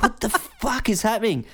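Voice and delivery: high, laughing disbelief; shocked disbelief. Retold or imitated. Tripping narrator reacting to chaos, high and laughing. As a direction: blurt it out stunned and giggling. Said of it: "And I'm like".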